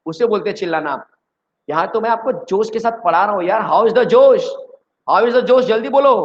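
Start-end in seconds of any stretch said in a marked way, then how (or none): 3.6-6.1 loud, higher, pumped-up call to the class; rally the students' energy; cheerleading teacher; energetic hype. Real, not acted.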